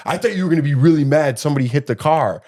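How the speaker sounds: quick, lightly voiced kid imitation; a hint of a child's voice, rushed; child questioning dad. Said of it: "And he goes".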